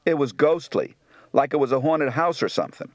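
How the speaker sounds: Baltimore accent. Shown as a demonstration.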